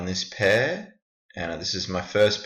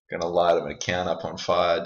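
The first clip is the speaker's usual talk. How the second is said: talking while eating a snack; words round a mouthful of snack; mouth full. Real, not acted. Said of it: "I'm just eating the snake".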